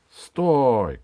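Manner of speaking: loud, brief order to halt; commanding cry. Acted. Дед Мороз halts the villain, loud commanding cry. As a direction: call out to stop them. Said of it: "крикнул Дед Мороз".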